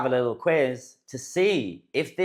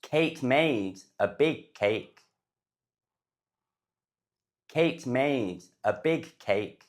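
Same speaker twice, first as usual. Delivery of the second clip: slow model reading; 4 dB quieter, slower than usual. Shown as a demonstration. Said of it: "how do you say this sentence".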